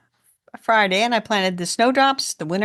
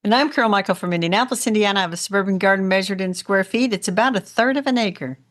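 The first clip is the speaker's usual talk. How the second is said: brisk, rehearsed self-introduction; sped-through intro. Real, not acted. Co-host introduces self and suburban garden, speeding through. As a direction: run through the familiar host bio quickly. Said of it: "we sped through it that time".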